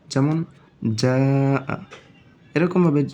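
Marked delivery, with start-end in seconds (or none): 1.0-1.2 জা held very long; four-alif stretch. Shown as a demonstration. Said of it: "চার আলিফ টান".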